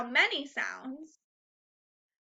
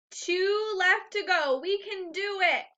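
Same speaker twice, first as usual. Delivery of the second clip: encouraging cheer; 6 semitones higher than usual. Real, not acted. Teacher encourages class.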